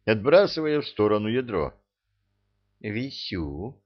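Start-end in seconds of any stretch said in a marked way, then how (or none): 2.8-3.8 a hint of a lazy, clipped answer; laconic. A narrator's reading. Vizier answering the ifrit tersely, softly. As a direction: toss it off in one word. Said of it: "лаконично ответил визирь".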